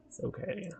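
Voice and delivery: tiny high-pitched okay; squeaky reassurance. Pretend. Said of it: "repeated reassurance".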